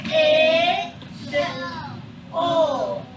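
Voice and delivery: "It, ol" as separate, loud, drawn-out sounds; "It", pause, "ol", each stretched and loud; tapped-out sounds. Shown as a demonstration. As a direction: sound out "It" and "ol" one at a time, loudly. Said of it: "let's tap out the sounds first".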